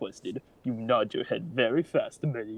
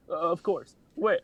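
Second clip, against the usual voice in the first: super awkward voice; 8 semitones higher, 5 dB louder than usual. Acted. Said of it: "super awkward talking voice".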